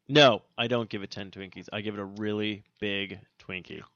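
talking around ice in mouth. Real, not acted. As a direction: mouth full of ice, words blurred. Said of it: "I got ice in my mouth, guys, so I'm talking weird".

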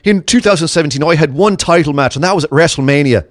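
a light, half-hearted Irish accent; reading the quote with a hint of Irish. Shown as a demonstration. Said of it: "Should I do some Irish accent?".

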